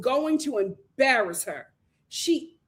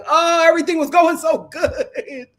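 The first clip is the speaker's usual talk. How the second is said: mock tantrum whine; 3 semitones higher, 4 dB louder than usual. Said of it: "he has a whole temper tantrum".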